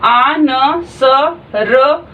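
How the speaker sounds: each stroke sound said alone with pauses, "आ", "न", "स", "र". Shown as a demonstration. Teacher reading the outline of answered sound by sound: "आ", "न", "स", "र". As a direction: read the outline slowly, one sound at a time: "आ, न, स, र". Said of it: "अब इसको read करेंगे".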